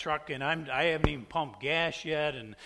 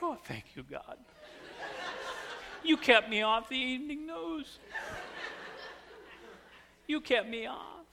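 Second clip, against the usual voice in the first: relieved laughing prayer; 7 semitones higher, 5 dB quieter than usual. Retold or imitated.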